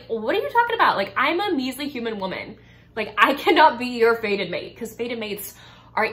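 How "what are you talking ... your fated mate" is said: high, loud incredulous protest; a human girl told she's a fae's mate, protesting in disbelief; shocked disbelief. Retold or imitated. Reader voicing the heroine, shocked and high.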